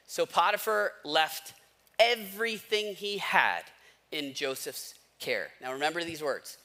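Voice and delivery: slow, deliberate reading from the Bible; unhurried scripture reading to a congregation. Acted. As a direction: read each phrase slowly and weigh it. Reads Genesis chapter aloud.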